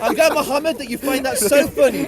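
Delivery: pointed, offended sarcasm over laughter; indignant sarcasm. Real, not acted. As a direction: rebuke the one laughing at you.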